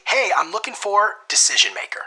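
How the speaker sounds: friendly, high-pitched, upbeat greeting; high energy. Shown as a demonstration. Cold caller asking the gatekeeper for the boss, high energy. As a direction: sound like a friend who knows him. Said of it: "In a very high energy tone".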